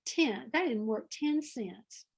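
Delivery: slow, drawn-out Southern "Ten"; unhurried Southern twang on "Ten"; Southern accent. Shown as a demonstration. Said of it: "I wanna say".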